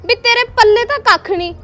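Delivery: rising fury at a useless husband; angry retort. Acted. Wife fights back at husband. (ਗੁੱਸੇ ਨਾਲ ਉੱਚੀ ਬੋਲੀ)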